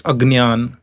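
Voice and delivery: Agnyan with g running into ny; Agnyan, a clear g-n-y cluster; South Indian pronunciation. Shown as a demonstration. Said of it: "In South India, it is pronounced".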